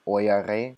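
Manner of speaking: "euere" slowly in three syllables, eu-e-re; full form euere. Shown as a demonstration. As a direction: stretch out "euere" keeping the E. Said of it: "we can drop this E".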